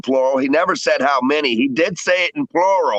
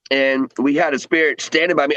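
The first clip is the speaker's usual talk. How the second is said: chewing between words; wolfing down food. Real, not acted. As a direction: mouth full while talking. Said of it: "I'm sorry, I'm eating".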